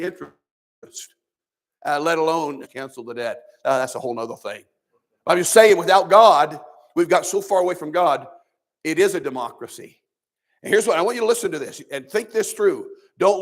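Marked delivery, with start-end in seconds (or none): 5.2-8.3 much louder emphatic preaching; preaching emphasis. Real, not acted. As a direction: hammer the point home.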